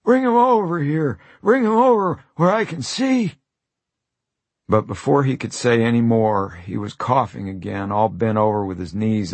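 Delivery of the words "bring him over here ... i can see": high, loud eager demand; eager dying man. Acted. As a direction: call them over, eager and weak.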